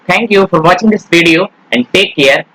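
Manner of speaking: slow, drawn-out farewell; slow YouTube outro; slow sign-off. Acted. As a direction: stretch out the goodbye to viewers. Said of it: "video sign-off".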